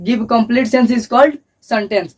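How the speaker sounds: very slow, word by word; slow, spaced classroom dictation. Shown as a demonstration. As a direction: dictate the definition. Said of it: "बोल रहा है".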